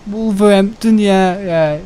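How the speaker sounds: high Brummie moaning voice; mock Birmingham accent. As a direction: grumble in an exaggerated Birmingham accent. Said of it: "I don't like that accent".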